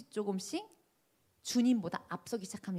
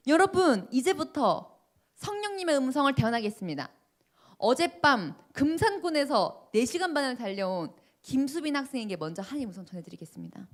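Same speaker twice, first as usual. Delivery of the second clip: fiery prophetic announcement; 3 semitones higher, 4 dB louder than usual. Retold or imitated. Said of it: "불을 받으시고 마이크를 잡으시더니".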